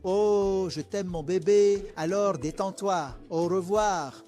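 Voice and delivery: gushing mother. Acted. Mother gushing over her child.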